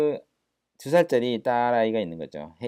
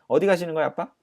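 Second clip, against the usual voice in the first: put-on 1 child voice; 8 semitones higher, 6 dB louder, much faster than usual. Child's line translated.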